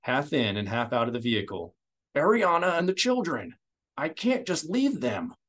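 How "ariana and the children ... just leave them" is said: clinging to hope for his family; desperate refusal; anguished protest. A narrator's reading. Senator refuses to leave family.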